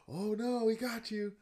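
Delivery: high mock gasp and alarm; mock scared. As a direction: pretend to panic at the screen. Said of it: "just the girl".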